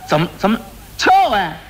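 急得嚷出来，最后一声拔高; 心里发急，冲徒弟喊; 着急嚷嚷. Acted. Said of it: "他一着急，他嚷嚷出来了". (着急地嚷嚷)

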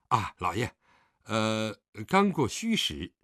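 hasty servant's reply with a hesitant "呃"; 连忙应答的仆人. A narrator's reading. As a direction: answer the master promptly, pitch rising at the end. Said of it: "狄春儿连忙答道". (仆人连忙回话)

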